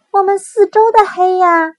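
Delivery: high, loud wailing cub; a small cub crying out about the dark; little bear voice. Acted.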